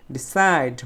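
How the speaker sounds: "ডিসাইড" with a drawn-out, strong সাইড; stress on সাইড. Shown as a demonstration. Teacher showing the stressed syllable, long সাইড. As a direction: lean on the second syllable of "ডিসাইড". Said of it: "সাইড শব্দটা হচ্ছে স্ট্রেচ syllable".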